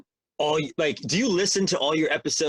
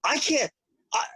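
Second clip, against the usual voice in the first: mock dim-witted voice; 6 semitones higher than usual. Guest mocking how the host hears him, goofy dim voice. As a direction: ham up a dopey guy for a second, half-laughing. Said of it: "Do you think I go around like this?".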